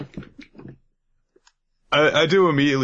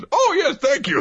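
very high prim voice; tied-up captive thanking politely; polite tied-up thanks. Retold or imitated. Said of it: "is just like".

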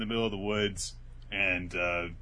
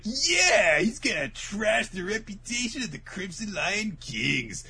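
high, loud opening yell in mock bravado; exaggerated, raised-pitch cheer; mock rallying cry; 11 semitones higher, 3 dB louder, slower than usual. Retelling a character's boast about the Crimson Lion Kings, mock rallying cry. Acted retort in story recap.

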